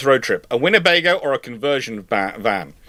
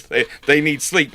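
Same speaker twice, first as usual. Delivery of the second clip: usual speaking voice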